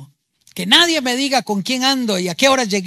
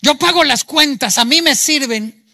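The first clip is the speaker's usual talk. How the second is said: domineering demand; 3 semitones higher, 4 dB louder than usual. Acted. Wounded tyrant parent demanding service.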